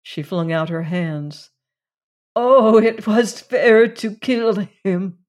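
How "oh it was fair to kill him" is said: slow, higher and louder pleading line; woman's dialogue. A narrator's reading. Woman defending the killing to Randolph, slow raised voice. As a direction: voice her slowly, lifted above the narration.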